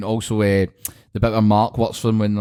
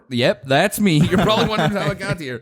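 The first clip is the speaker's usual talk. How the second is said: mock narration; 8 semitones higher than usual. Freeze-frame meme quote.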